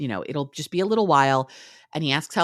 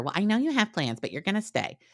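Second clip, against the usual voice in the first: taunting, mocking voice, pitched up; 6 semitones higher, 4 dB quieter than usual. Recapping a scene where he mocks Peggy, retelling a mocking remark. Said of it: "he kinda mocks her".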